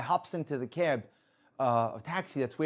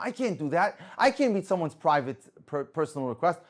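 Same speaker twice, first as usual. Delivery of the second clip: retold protest; 4 semitones higher, 6 dB louder than usual. Man protests the driver's demand.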